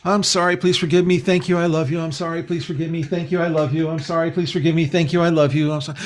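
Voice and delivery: rattled off softly like a rote mantra, slightly fast; just reciting words, no feeling behind them; rote recitation. Shown as a demonstration. Demonstrating empty repetition of the mantra, mechanical and soft. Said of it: "I'm not just sitting there going".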